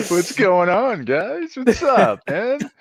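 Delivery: high, loud hype greeting; big high whoop of a hello; excited greeting. Real, not acted. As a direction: shout it out to the viewers. Guest greets audience excitedly.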